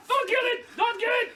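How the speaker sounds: high, urgent yell of don't kill it; alarmed high cry; panicked shout. Real, not acted. Panicked plea to the toy.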